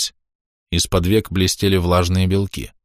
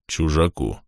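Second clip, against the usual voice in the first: softer, lower, dark finish; grim; 3 semitones lower, 4 dB quieter, slower than usual. A narrator's reading. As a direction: close the sentence darkly. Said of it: "мрачно закончил Степан".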